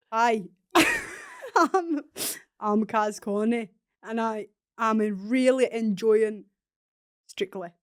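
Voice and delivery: light, laughing attempt at a Scottish accent; a hint of Scottish accent, giggling through it; Kaz Carney in a Scottish accent. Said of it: "let's pretend you're Scottish".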